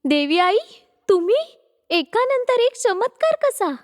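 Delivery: lightly voiced amazed devotee; wonder-struck young woman; awed surprise. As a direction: question the miracle, pitch climbing. Awed on meeting the goddess.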